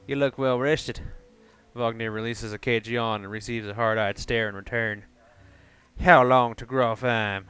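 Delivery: put-on southern accent; faux southern accent. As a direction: read it in a badly faked southern accent. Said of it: "Gonna do kind of a faux southern accent".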